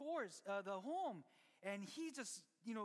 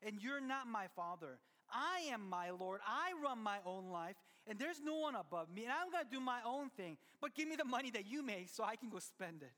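defiant son. Retold or imitated. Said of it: "The son had said".

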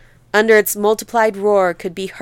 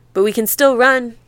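shouted; 3 semitones higher than usual. Acted. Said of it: "Tea Cake shouted".

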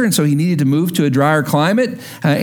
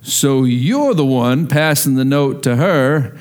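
stern teacher; 6 semitones lower, slower than usual. Retold or imitated. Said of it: "and he goes".

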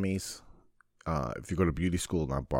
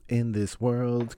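announcer voice; 5 semitones higher, slower than usual. Shown as a demonstration.

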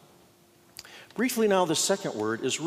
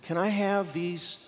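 gentle Jesus; 2 semitones higher than usual. Retold or imitated. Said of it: "He says".

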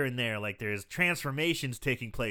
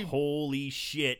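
very slow, drawn-out amazement; mock awe; much slower than usual. Voicing the punks gathered round the werewolf, stunned. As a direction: stretch it out, stunned.

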